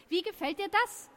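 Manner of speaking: high-pitched, contained narrated yell; yelled at him. A narrator's reading. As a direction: throw it in the beaten bully's face. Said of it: "schrie ich ihn an".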